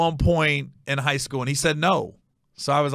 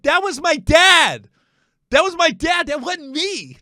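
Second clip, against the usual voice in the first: high, loud hammed-up panicky protest; mock yelling; 13 semitones higher, 8 dB louder, slower than usual. Son imitating dad yelling out the truck window crack, high mock shout. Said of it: "was yelling out the crack".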